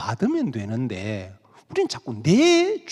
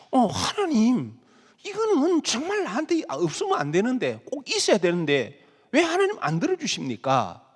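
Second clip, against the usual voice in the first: imitating a believer pleading through tears; tearful pleading; 5 semitones higher than usual. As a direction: beg God with a crack of tears. Congregant pleading with God.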